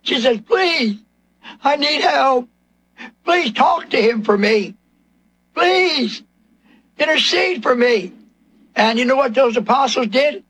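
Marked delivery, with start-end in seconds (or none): 0.4-8.1 high, falling "please", acted as begging; imitated pleading. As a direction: plead like the desperate woman, lightly acted. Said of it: "she pleads with them".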